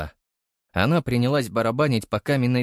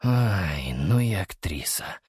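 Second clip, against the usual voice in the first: sighing; 3 semitones lower, slower than usual. Acted. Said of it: "вздохнул я".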